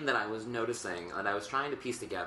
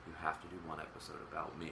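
Reagan impression; 6 semitones lower, 13 dB quieter, faster than usual. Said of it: "Ronald Reagan was like".

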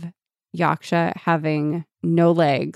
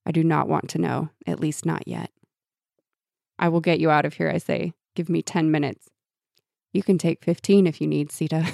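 story narration. Acted. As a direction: read it like an audiobook. Reads book passage aloud.

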